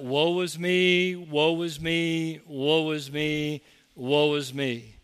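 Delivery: slow, mock self-pitying moan; drawn-out sigh mocking a whiner. Preacher mocking a self-pitying man online, slow whine. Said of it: "it's all about".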